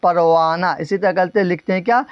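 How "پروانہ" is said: پروانہ ending in an open "naa"; silent final h. Shown as a demonstration. Teacher repeats correct reading, پروانہ with no final h. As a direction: leave the ہ of پروانہ unsounded. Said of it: "کیا بولتے ہیں؟".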